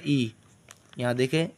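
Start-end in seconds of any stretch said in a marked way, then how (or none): 0.1-0.3 long ई held clearly; ई as a long clean ee; ee sound. Shown as a demonstration. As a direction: model the pure ee vowel. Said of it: "ये ई का sound देगा".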